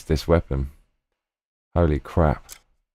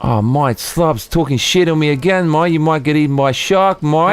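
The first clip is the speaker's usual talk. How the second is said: put-on South African accent; 7 semitones higher than usual. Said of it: "my South African accent".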